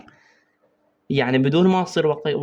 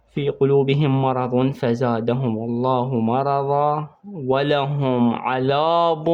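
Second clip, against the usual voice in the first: slow, drawn-out tajweed chant; Quran recitation; much slower than usual. Shown as a demonstration. Teacher recites the verse for students in slow tajweed chant. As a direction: recite each word slowly as in prayer.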